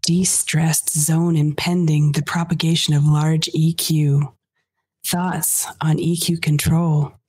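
slow, loud, seductive reading; sexy voice. Pretend. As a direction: read it like it's seductive. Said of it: "read this in a sexy voice".

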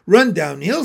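loud shouted advice; called-out suggestion. A narrator's reading. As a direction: call it across the farmyard. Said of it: "suggested the cows".

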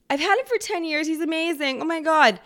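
mock a doting cat lady, rising to a loud end; high mocking cat lover, loud at the end; gushing cat lady. Mocking cat owner again.

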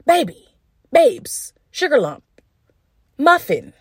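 teasing pet names. Pretend.

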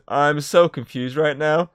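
high, slow, drawn-out confusion; bewildered. Retold or imitated. Retelling Peter's reply to Doc Ock, mock bewildered.

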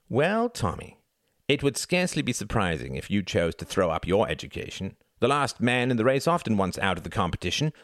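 lightly voiced contemptuous sneer; sneering older brother. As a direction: belittle the little brother. Reginald mocking his brother.

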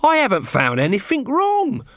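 high-pitched, half-shouted announcement; shouting. A narrator's reading. Nobby barging in on the armourer, high mock shout. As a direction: call it out high without much extra volume. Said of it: "he shouted".

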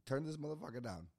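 loud, high comic complaint; acted onstage protest. Comic on stage objecting to the bright light, loud high protest. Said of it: "I get up there, I went".

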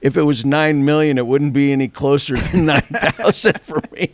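chuckling through a mock sob story; amused sad story. Broke buyer explaining to Andy, amused and laughing. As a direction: tell it with laughs breaking in.

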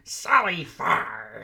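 slow, stretched calling of the name; drawn-out call. Retold or imitated. Host quoting a character calling for Sally, slow drawn call.

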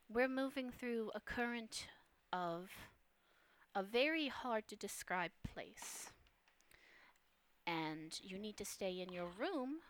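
the mysterious woman warns Holmes to stay in his room, hushed; hushed feminine voice. Acted. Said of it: "you hear the voice above you go".

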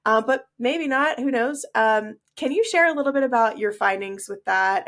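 stuffy, nasal voice. Real, not acted. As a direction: talk through a blocked nose. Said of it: "my extra nasal voice today".

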